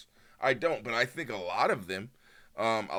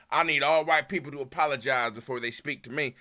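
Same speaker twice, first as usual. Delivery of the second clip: Southern twang. Acted. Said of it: "Southern twang for both the white racist and the black, unreasonable".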